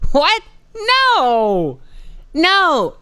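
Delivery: very high, loud, slow scoffing voice; mocking boss dismissing question; condescending boss. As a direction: talk down like the question is stupid. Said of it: "he just talks to you always like".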